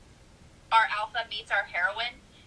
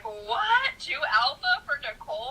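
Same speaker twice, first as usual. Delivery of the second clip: mock disbelief; 5 semitones higher, slower than usual. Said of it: "she was like".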